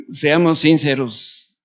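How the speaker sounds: sinceros, pronunciado sin-CE-ros con la I marcada; stress on the I. Shown as a demonstration. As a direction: cargar el acento en la i de sinceros. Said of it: "con acento en la I". (acento en la I de sinceros)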